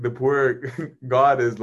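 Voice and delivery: normal talking voice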